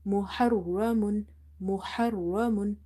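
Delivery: محرم slowly, with a thick doubled r; slow, emphatic rolled ra in محرم; heavy doubled ra. Shown as a demonstration. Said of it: "Ra is heavy as well as it's twice".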